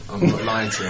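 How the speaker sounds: laughing through the words, teasing. Real, not acted. Guest laughs admitting his numbers are off, laughing. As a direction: chuckle out the confession.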